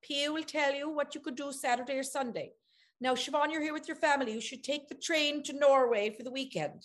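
lightly voiced helpful Danish hosts. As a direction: play the eager hosts lightly. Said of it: "they're like".

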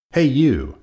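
loud, high challenging call; grouchy call. A narrator's reading. Grouchy ladybug challenges an animal.

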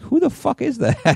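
high-pitched shocked disbelief. Retold or imitated. Retelling shocked reaction watching SNL.

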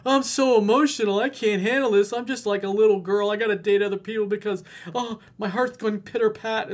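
put-on high, loud whining like a little girl; mock crybaby. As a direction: ridicule his oversharing with a baby voice. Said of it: "You don't go".

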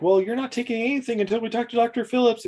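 high, stern refusal; lightly voiced firm woman. Woman forbids Bailey from taking the apes, high firm voice. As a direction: put your foot down.

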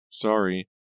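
high, thin little apology; upset caller's small high voice; thin and shaky. A narrator's reading. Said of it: "her voice thin and shaky".

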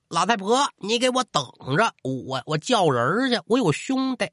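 high-pitched threats yelled over the shoulder; cursing while fleeing. Acted. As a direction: spit the threats back as you run off. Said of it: "边逃口中可还边骂".

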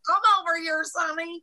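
high cooing auntie voice; doting aunt voice. Pretend. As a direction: coo at the nephew like a gushing aunt. Playing cooing aunt to nephew.

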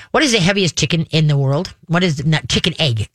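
slurring round a loose denture; struggling with loose teeth. Real, not acted. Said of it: "I still can't get it out".

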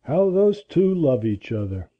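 put-on low, slow old man's musing; mildly envious old man talking to himself; envious mutter. A narrator's reading. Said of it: "he muttered enviously".

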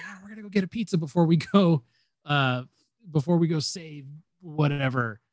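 light mock Southern accent. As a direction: rattle it off in a goofy Southern accent. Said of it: "I'm doing a Southern accent".

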